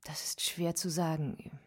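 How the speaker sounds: hushed whisper. Acted. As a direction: breathe the words out, barely audible. Wife hesitates before Holmes.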